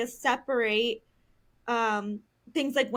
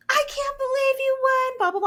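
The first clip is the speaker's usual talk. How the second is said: much higher, whiny pretend despair; hammed-up devastated loser; mock sore loser; 13 semitones higher, 4 dB louder than usual. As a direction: play the kid who thinks losing ends the world. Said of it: "act like losing was the end of the world".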